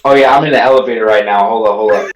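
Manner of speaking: echoey voice in a lift; echoing in elevator shaft. Real, not acted. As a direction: sounds like inside an elevator shaft. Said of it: "The echo".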